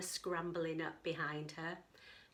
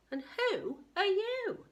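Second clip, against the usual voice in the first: dinosaur voice; 11 semitones higher, 4 dB louder, slower than usual. Acted.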